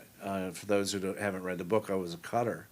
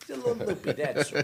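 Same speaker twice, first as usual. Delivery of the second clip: high mock quote; 9 semitones higher than usual. Repeating in high voice.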